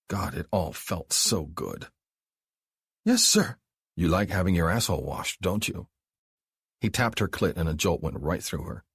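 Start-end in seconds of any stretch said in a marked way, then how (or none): 3.0-3.6 high, loud, straining yes; can barely get the words out; breathless ecstatic yes. Acted. Abby answers Mark on the edge of climax, ecstatic. 4.0-5.9 teasing question. Acted. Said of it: "he repeated".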